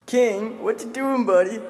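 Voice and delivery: high pet talk to dog. Real, not acted. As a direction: coo at the dog. Talking to dog.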